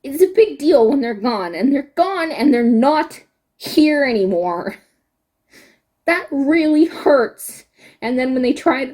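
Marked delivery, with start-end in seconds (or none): 0.0-7.6 on the verge of tears. Real, not acted. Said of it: "now I'm gonna start crying".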